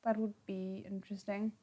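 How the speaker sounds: hushed whisper; soft whispered aside. Real, not acted. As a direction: whisper it as a secret.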